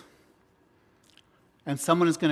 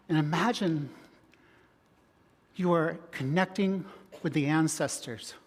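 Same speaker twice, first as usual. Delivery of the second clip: guided visualization; 2 semitones higher than usual. Acted.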